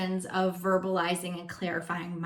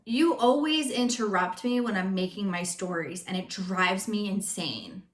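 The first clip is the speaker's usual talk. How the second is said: blaming tone. Shown as a demonstration. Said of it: "For example".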